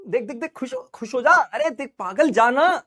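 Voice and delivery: the iris personified, hyping up the pupil; iris as a friend. Acted. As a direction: egg the pupil on like a pushy buddy. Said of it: "iris क्या कहता है".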